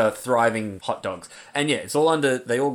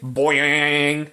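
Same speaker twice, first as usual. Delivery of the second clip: boing sound effect. Acted. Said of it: "he has to put in a sound effect".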